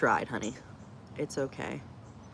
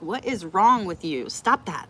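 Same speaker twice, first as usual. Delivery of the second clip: slower, higher, louder scolding; mock scold; 3 semitones higher, 6 dB louder than usual. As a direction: tell the kid off in exasperation. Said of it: "and I'm like".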